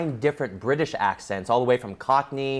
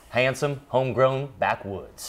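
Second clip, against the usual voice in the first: put-on Southern country accent; 3 semitones lower than usual. Host reading Ayla's comment, low Southern accent. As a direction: read it like a backwoods boy.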